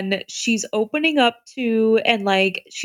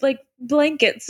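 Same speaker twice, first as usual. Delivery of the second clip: put-on delighted girlish quote; 5 semitones higher than usual. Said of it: "then she's like".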